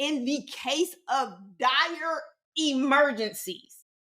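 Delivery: slow, with heavy stress on dire. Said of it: "Emphasis on dire".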